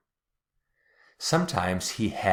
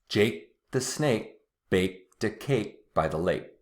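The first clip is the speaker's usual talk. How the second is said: quickly. Shown as a demonstration. Teacher saying the twister quickly to show dropped K. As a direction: run it together quickly, K sounds swallowed. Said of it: "Now I'll say it again quickly".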